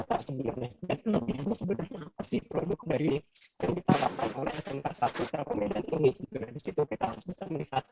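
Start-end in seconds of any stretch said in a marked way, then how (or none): 6.3-7.9 breaking up like a bad call; garbled, dropping-out connection; choppy glitchy audio. Real, not acted. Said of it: "Pak, suaranya putus-putus". (suara putus-putus)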